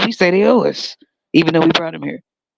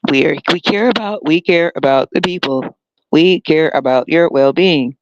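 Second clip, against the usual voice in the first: mock politician. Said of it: "that's how they fucking sound".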